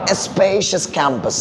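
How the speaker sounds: "spacious" stretched slowly wide; expressive lengthening. Shown as a demonstration. Teacher demonstrates meaning through sound, spacious drawn out. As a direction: open space inside spacious. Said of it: "space വരണം അവിടെ".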